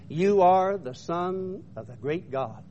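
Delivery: slow, solemn quoted proclamation; retold worshipful declaration. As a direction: declare it slowly, in reverence. Retold crew worshiping Jesus.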